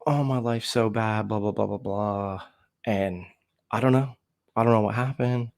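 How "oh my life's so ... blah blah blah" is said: dismissive parody of moaning, fading off into blahs; mock droning complaint. Buddy going on at a party, mimicked as a tedious drone. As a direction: imitate a self-pitying drone. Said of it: "constantly drone on about".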